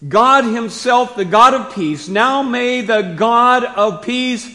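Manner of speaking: loud, high, slow preaching emphasis; hammered-out, weighty declaration; emphatic scripture reading. Acted. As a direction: drive each phrase home with force and pauses. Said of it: "Paul uses the emphatic Greek construction".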